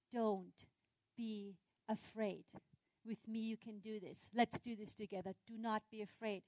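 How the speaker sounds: calm the listener tenderly; reassuring. Acted. God to a scared humankind, gentle reassurance. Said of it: "God's always saying".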